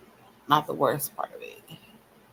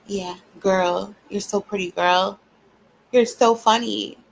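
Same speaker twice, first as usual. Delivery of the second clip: higher, louder, gushing fake friend; sugary mock compliments, higher and louder; mock girly praise; 4 semitones higher, 4 dB louder than usual. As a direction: ham up a fawning girlfriend.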